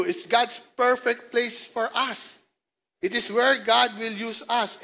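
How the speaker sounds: deliberately slow, weighted delivery; slow, emphatic scripture reading; slow verse reading. Acted. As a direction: read each word slowly to let it sink in. Preacher reading key verse slowly.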